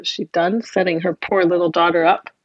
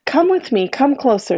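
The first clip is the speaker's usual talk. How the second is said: luring stepmother; 5 semitones higher than usual. Acted. Stepmother lures the boy.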